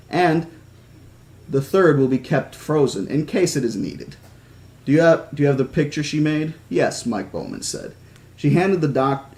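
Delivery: measured audiobook-style reading; story narration. A narrator's reading. Reading a novel about an injured girl to listeners, story narration. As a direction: read the story aloud with lightly voiced dialogue.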